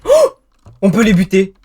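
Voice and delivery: high loud victory yell; triumphant shout. Real, not acted. Kills the mobs, triumphant.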